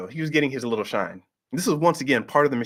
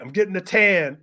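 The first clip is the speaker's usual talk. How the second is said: higher-pitched mock holler; mildly raised retort; retold yell; 5 semitones higher than usual. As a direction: imitate a wrestler yelling back at hecklers. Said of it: "yelling at the audience".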